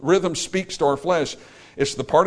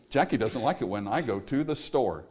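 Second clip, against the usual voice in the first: "Jackie doesn't like it when I go to the store" heavy and even; sad rhythm; 3 semitones lower, 6 dB quieter than usual. Shown as a demonstration. Preacher shows how rhythm makes the line sound sad. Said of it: "we make it sound sad".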